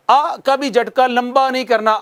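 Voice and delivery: ordinary talk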